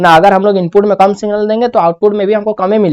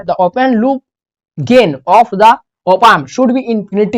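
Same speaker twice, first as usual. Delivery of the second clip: slow, steady statement of the rule; stating the rule; much slower than usual. Shown as a demonstration. Teacher states the rule to the class, slowly. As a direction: read the whole rule out once, evenly. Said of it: "फटाफट लिख लीजिए".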